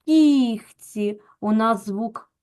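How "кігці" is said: louder, stretched І in "Кігці" after softened К. Shown as a demonstration. Teacher shows pupils the softened sound, softened К. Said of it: "пом'якшений".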